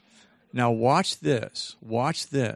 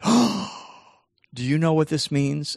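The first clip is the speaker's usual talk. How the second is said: gasped, high, louder realization; excited student; 4 semitones higher, 3 dB louder than usual. Retold or imitated. Student realizing what her A means, excited. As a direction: act out a thrilled discovery.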